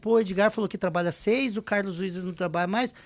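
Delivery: whiny objection. Retold or imitated. Imitating a complaining broker.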